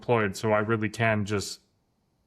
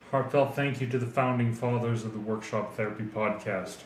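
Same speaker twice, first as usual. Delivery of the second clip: put-on Australian accent. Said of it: "Australian accent. It's terrible".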